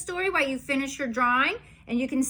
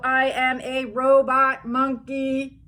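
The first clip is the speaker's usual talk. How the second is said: slow, stiff robot monkey; 4 dB louder than usual. Acted. Book forces robot monkey line.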